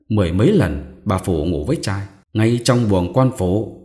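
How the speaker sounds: slow, leaning hard on every syllable; wife spelling out the scandal word by word, slow and deliberate; measured, each word weighted. A narrator's reading. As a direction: drop each word on him like a hammer blow, slowly. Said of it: "bà thong thả dằn từng tiếng".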